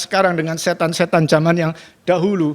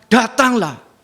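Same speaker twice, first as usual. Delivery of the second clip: gentle call; 5 semitones higher, much slower than usual. Retold or imitated. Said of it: "Tuhan Yesus mengatakan".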